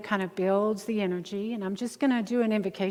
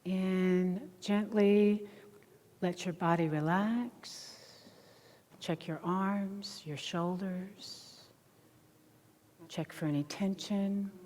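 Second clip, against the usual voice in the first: soft, slow relaxation voice; guided meditation; 4 dB quieter, slower than usual. Acted. Meditation leader settling a group with eyes closed, hushed guidance. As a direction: ease them gently into stillness, very softly.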